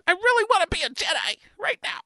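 breathy high excited whisper. Real, not acted. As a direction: whisper it fast, like a secret wish. Sudden whispered wish.

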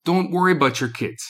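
upbeat commercial voice; ad read. Acted. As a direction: sell it like a radio spot. Reads ad copy for a business.

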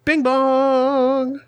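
high chime-like bing bong; Galt voice. Pretend. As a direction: sing it out like a chime. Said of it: "That wasn't very Galtish".

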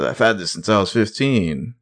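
lightly imitated TV character voice; a hint of someone else's voice; Peter Hastings. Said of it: "I'm doing my Peter Hastings voice".

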